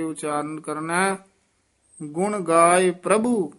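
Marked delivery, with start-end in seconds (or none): 2.0-3.5 "ਗੁਣ ਗਾਏ ਪ੍ਰਭੂ" ending in a short check; measured "ਗੁਣ ਗਾਏ ਪ੍ਰਭੂ" with a closing beat; brief pause after. Shown as a demonstration. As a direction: lengthen "ਪ੍ਰਭੂ", then halt briefly. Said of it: "ਇੱਥੇ ਠਮਕ ਲਾ ਦੇਣੀ ਹੈ".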